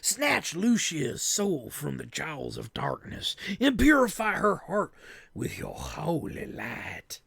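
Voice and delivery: grave, measured spell prayer; solemn incantation. Acted. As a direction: intone the prayer to the goddess. Character recites the spell again.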